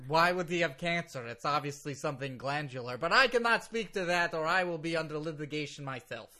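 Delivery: put-on Russian-accented legal caution; officious lawyer in a thick Russian accent. Lawyer declines to discuss client's illness, Russian accent. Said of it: "because of my thick Russian accent".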